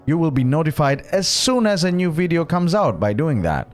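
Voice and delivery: rapid-fire call to action; fast outro read. Acted. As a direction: rattle off the outro quickly.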